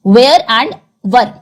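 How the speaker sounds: drawn-out "वेयर" against short "वर"; contrasting where and were. Shown as a demonstration. Teacher repeating "वेयर" and "वर" for the class, slowly. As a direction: stretch "वेयर", then a quick "वर". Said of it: "different है".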